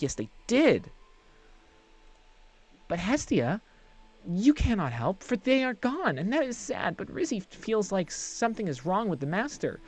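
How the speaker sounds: high, quick, fawning sprite voice; a giddy small servant creature gushing about Master's things; eager little creature. Acted. Reezy the creature greets Hestia, high and eager.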